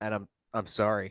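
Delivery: sheepish, abashed tone. In a role-play, apologizing after having left, sheepish. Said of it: "I get like really sheepish".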